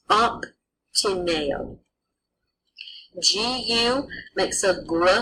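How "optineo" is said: "optineo" said slowly with a P for the B; Latin pronunciation. Shown as a demonstration. Latin teacher demonstrating obtineo to the class, slowly. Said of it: "would be pronounced".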